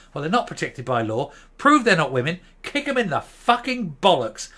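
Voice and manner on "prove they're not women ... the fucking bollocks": angry outburst. Real, not acted. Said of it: "I'm getting angry".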